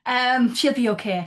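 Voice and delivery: reassuring. Real, not acted. Host reassures the panel about the actress, slow and emphatic. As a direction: insist kindly that she'll be fine.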